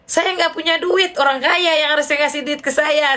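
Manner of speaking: high-pitched playful retort; teasing. Retold or imitated. Joking with a rich friend who phones for help, teasing. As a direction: tease a friend with mock protest. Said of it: "Saya bercandain kan".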